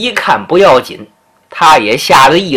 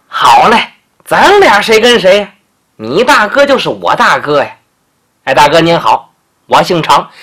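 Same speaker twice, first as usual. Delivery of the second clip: polite Changbolu. Acted. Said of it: "这长脖鹿还挺客气".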